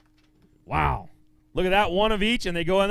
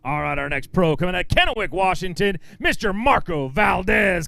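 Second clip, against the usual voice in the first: announcer intro. Acted. Emcee introducing the next pro to the crowd, booming announcer style. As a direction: sell the name like a boxing intro.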